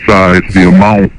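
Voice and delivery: caller voice through a pitch-changing harmonizer; electronically disguised phone caller. Real, not acted. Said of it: "so his voice is disguised".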